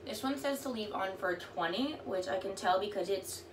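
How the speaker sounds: lips hemmed by wet sheet; through a sheet mask. Real, not acted. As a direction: face covered while talking. Seen 0: Wet sheet mask covers whole face while talking; R frames bare.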